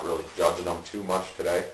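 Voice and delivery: talking around pipe mouthpiece; speaking while smoking hookah; hookah mouthpiece at lips. Real, not acted. Seen 0: Holds mouthpiece at lips from 0.8s while talking; earlier frames hand-held.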